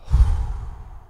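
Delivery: long breathy exhale; exhaled hit. Retold or imitated. Smoker letting out a monster hit, long exhale. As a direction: blow the smoke out slowly.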